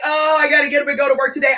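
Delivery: reluctant groan. Retold or imitated. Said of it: "And I don't mean like".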